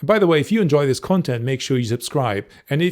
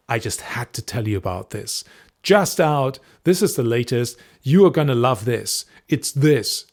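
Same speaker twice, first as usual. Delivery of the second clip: excited must-share. Shown as a demonstration. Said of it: "do you hear how it affects my personality".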